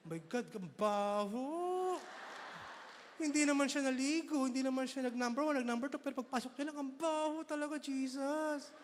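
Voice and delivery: gossiping churchgoer. Acted. Gossip complaining about smell.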